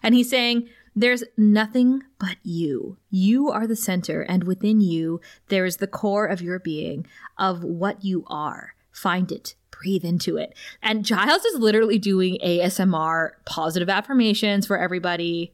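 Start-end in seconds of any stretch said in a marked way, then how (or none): 0.9-10.5 calming voice. Retold or imitated. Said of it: "Giles's calming, sexy voice".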